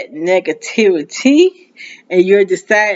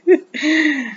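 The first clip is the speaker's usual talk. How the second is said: short high laugh through tears; brief, high-pitched self-conscious laugh; embarrassed laugh; 9 semitones higher than usual. Real, not acted. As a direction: laugh at yourself while tearing up. Laughing at own tearful slip.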